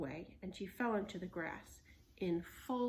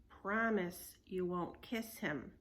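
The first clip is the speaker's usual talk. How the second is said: stern; slower than usual. Acted. Stern slow demand.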